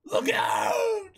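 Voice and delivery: high, loud cry of alarm; frantic warning shout. Acted. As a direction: yell a desperate warning. Warning cannon fire.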